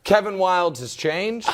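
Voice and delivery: slow, hammed-up crying wail; mock lament. Host mourning a co-host's picks to America, mock sob. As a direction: grieve over it like a soap opera.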